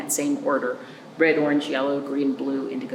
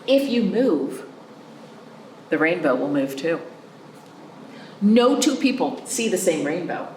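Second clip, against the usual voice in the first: put-on reading to children. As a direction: read it aloud to a class of little ones. Reads a picture book to children.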